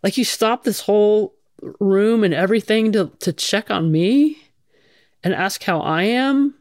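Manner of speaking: half-amused who, me; retelling her surprise at being singled out, lightly incredulous; mock disbelief. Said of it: "I look behind me like".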